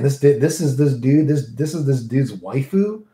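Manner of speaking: a touch of Southern drawl. Real, not acted. Worried newcomer mulling over some dude's waifu, light southern drawl. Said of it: "that was my southern drawl".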